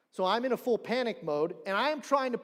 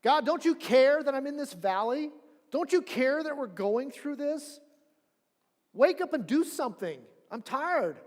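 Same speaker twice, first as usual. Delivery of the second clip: higher and louder, pleading complaint; desperate plea to God; 5 semitones higher, 4 dB louder than usual. Retold or imitated. Believer in a valley begging God to wake up, pleading. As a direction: cry out like someone fed up in their valley. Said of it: "Have you had that moment?".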